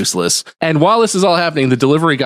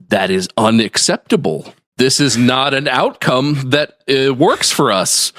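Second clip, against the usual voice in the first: disapproving parent voice. Retold or imitated. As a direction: scold like a let-down parent. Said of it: "my disapproving parent voice".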